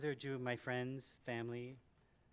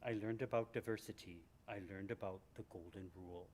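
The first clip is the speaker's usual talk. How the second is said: put-on Minnesota accent. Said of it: "I'm gonna do the Minnesota voice".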